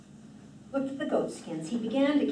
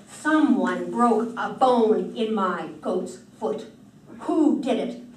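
angry demand; 7 dB louder, slower than usual. Acted. Thor furious at household.

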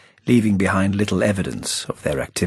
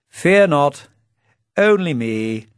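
cheery entrance; 6 semitones higher, 4 dB louder, slower than usual. A narrator's reading. Playfair's silly cheery entrance.

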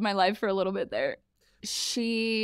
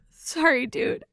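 laughing apology; 9 semitones higher, 3 dB louder, slower than usual. Real, not acted. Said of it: "And she loses it".

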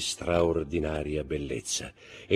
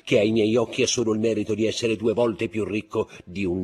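higher and louder gentlemanly protest; Debray protesting; 7 semitones higher, 9 dB louder than usual. Acted. Debray answers the baroness, raised mock protest. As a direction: defend yourself with lofty indignation.

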